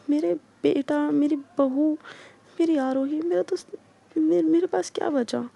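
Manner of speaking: lightly voiced grieving old woman asking what is left; grandmother's lament. Grandma laments her lost family. (दादी की दुखभरी, ऊँची फ़रियाद)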